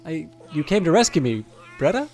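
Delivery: lightly voiced lonely rescued girl; a hint of a shy, pleading young woman; timid girl voice. Reads Bretta's lines in character.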